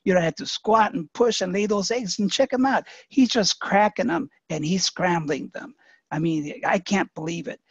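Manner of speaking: a hint of an outraged mother hen; indignant chicken. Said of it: "The chicken said".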